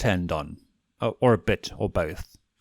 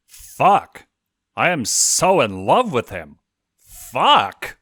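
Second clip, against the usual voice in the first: louder, giddy exclaiming; thrilled outburst; 5 semitones higher, 8 dB louder, much slower than usual. A narrator's reading. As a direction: shout in smitten awe. Blitz exclaims in awe.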